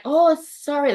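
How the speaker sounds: lightly voiced German apology; German accent. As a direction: mimic a German crew member saying sorry. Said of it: "the German accent".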